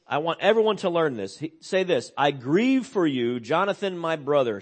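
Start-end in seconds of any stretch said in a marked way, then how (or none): 2.2-4.6 heartfelt lament. Retold or imitated. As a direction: grieve aloud for a dear friend. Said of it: "David says".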